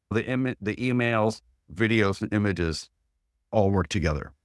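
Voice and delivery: talking through hiccups; speaking with the hiccups. Real, not acted. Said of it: "I got the hiccups".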